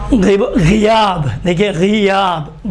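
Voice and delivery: slow غیاب with light gh and narrow "i"; unrounded "ghi" opening in غیاب; careful thin first syllable of غیاب. Shown as a demonstration. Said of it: "باریک لکھیں".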